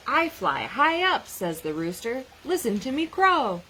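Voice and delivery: lively picture-book read-aloud with animal voices; reading to children. Acted. Teacher reading a snow book to children, lively read-aloud. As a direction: read it out like story time for a class.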